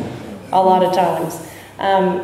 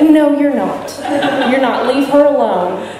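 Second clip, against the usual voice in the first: higher, louder, a laughing retold no; firm refusal; 4 semitones higher, 3 dB louder than usual. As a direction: sponsor cutting her off, half amused. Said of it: "And she said".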